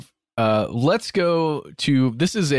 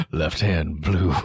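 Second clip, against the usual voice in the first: sultry narrator; 8 semitones lower, slower than usual. Retold or imitated. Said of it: "when Ben went".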